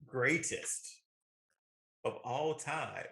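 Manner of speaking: building to a loud, proud proclamation; hyped-up praise. Real, not acted. Friend proclaiming his favorite movie the goat, loud and excited. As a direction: crown the movie the greatest, rising. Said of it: "He getting beside himself".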